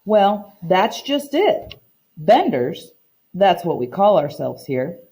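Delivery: reading a picture book aloud to the class, voicing the characters lightly; story narration. Teacher reading a story to her class, storytime narration. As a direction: read it like storytime for children.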